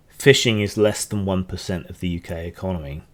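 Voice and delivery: tipsy slightly slurred speech. Real, not acted. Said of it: "I'm really getting drunk now".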